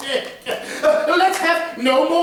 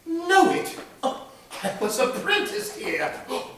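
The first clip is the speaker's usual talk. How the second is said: higher, louder, laughing with joy; overjoyed, bubbling with laughter at old memories; excited old man; 8 semitones higher, 5 dB louder than usual. Acted. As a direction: Scrooge delighted, laughing and crying out. Scrooge recognises his boyhood workplace.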